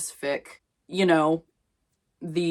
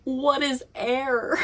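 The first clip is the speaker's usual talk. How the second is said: mock meme voice; 8 semitones higher, slower than usual. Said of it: "people being like".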